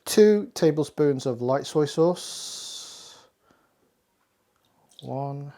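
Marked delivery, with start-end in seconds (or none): none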